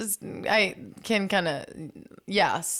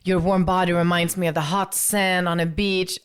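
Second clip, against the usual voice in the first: flowery romantic lover; 3 semitones higher, 6 dB louder than usual. Retold or imitated. Parodying flowery European texts.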